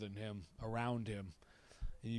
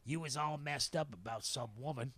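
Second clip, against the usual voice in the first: Bay. Retold or imitated. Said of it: "and he just goes".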